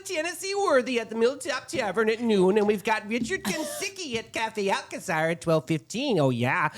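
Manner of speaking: chatty Midwestern mom reading listings; folksy Midwest accent, sing-song. Pretend. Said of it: "do it in my Midwestern mom voice".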